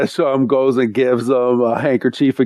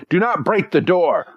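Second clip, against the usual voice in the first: slightly higher, emphatic order; mock stern warning; 4 semitones higher than usual. Trial master eyeing the wall-breaker, mock stern warning. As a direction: warn them firmly, played for laughs. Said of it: "he takes a stern look".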